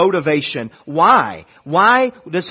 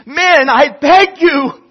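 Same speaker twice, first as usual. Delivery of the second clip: high, loud battle exhortation; general rallying troops; 11 semitones higher, 8 dB louder than usual. Acted. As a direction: rouse soldiers before battle. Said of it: "the general would stand before his soldiers".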